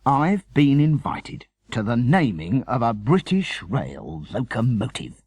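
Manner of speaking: proudly announcing, understated; cried triumphantly. Acted. Father announcing the naming invitation, mildly triumphant. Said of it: "he cried triumphantly".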